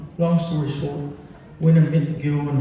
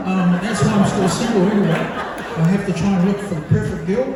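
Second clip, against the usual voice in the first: laughing through it; 4 semitones higher, 4 dB louder than usual. Real, not acted. Jokes about being single.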